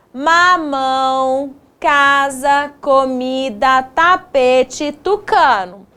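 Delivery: measured word-by-word reading; reading word list. Shown as a demonstration. Teacher rereads first-box words to pupils, measured list reading. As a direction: read the words out evenly, one by one. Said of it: "Vamos voltar aqui".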